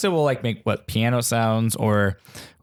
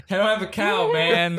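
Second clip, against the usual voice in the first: Bart Simpson impression; 5 semitones higher than usual. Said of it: "And he's like".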